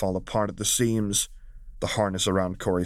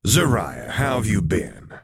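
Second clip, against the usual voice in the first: a touch louder, lightly voiced grinning greeting; 4 dB louder than usual. Lakmir greeting young Zariah, lightly grinning. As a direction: greet an old friend with a grin. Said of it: "she greeted the young Togruta with a fang-filled grin".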